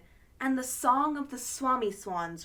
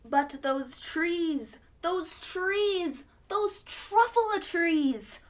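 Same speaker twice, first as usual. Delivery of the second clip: from slow to much higher and louder; building rapture; 6 semitones higher, 3 dB louder, slower than usual. Acted. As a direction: build to an ecstatic cry. Onceler's rising rapture.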